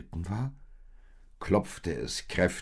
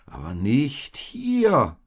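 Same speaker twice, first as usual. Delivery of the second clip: higher, louder and slow; firm retort; 9 semitones higher, 11 dB louder, slower than usual. Acted. Oldest sheep firmly answers the panicking little ones, louder. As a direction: put them right firmly. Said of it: "entgegnete das älteste Schaf".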